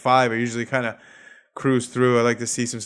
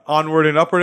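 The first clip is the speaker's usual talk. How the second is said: 1 upbeat catchphrase; 3 semitones higher, 5 dB louder than usual. Real, not acted. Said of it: "as they say".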